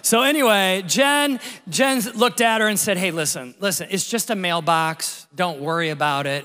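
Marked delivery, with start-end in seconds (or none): 3.0-6.4 gentle reassurance. Retold or imitated. Jen reassuring rattled delivery lady.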